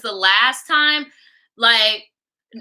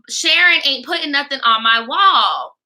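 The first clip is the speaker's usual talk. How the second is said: raised, insistent retold order; indignant demand. Demanding friend police her wall.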